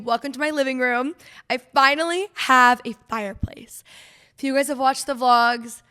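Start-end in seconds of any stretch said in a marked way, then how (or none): 1.5-5.8 breathless, short of air; talking while winded; out of breath. Real, not acted. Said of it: "out of, out of breath".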